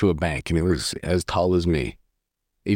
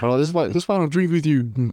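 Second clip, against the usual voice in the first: mock snippy; 8 semitones higher, faster than usual. Retold drunk argument.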